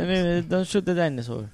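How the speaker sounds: softly pleading in a put-on Italian accent; mock Italian accent. Riffing on dinosaurs with friends, mock Italian accent. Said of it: "everything can be Italian".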